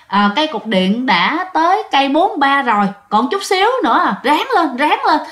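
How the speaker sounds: rally the tired group, lifting in pitch toward the end; reassuring encouragement. Acted. Hương calms the hiking friends, reassuring and encouraging. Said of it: "bạn muốn trấn an những người bạn".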